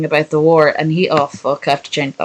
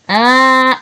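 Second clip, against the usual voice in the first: dismayed; 7 semitones higher, slower than usual. Real, not acted. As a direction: yelp as it goes wrong. Gaming mishap on stream.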